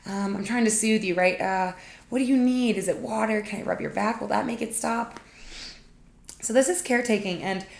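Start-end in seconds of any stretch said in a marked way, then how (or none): 0.1-5.2 higher, louder hurried soothing; antsy caretaker. Retold or imitated. Host plays an uncomfortable helper hushing a crier, higher and anxious. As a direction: soothe fast so the crying stops. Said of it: "So I'm like".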